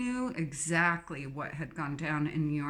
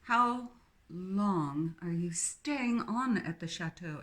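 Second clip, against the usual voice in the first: slow, posh, a bit menacing; slower than usual. Acted. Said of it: "leaning forward a bit menacingly".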